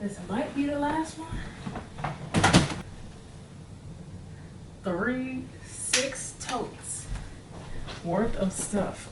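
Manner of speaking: panting after the stairs; breathless, gasping between words; out of breath. Real, not acted. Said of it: "I'm out of breath".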